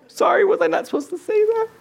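laughing while speaking after a fright; amused, laughing apology; real amused laughter. Real, not acted. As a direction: talk through a sheepish laugh. Laughing after being startled by cable.

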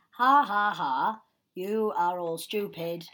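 hammy villain laugh and gloat; booming echoing villain monologue. Retold or imitated. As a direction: cackle then sneer like a cartoon villain. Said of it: "he does his classic villain monologue".

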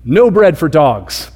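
slow, firm mock refusal; drawn-out, mildly stern dismissal; harsh refusal. Preacher imitating how Jesus could be misread, slow and stern. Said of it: "it could sound like".

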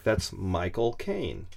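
slow, drawn-out British vowels on Michael Caine; mock British accent demo. Shown as a demonstration. Teaching a friend a British accent, slow and hammy. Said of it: "This is how you start".

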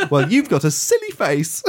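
giggling through a playground comeback; laughing schoolboy taunt; laughing childish retort. Retold or imitated.

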